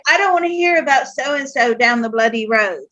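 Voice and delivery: retold telling-off, quick at first; mildly cross scolding of a parent; mad. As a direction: lay down the law, understated anger. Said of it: "I was so mad".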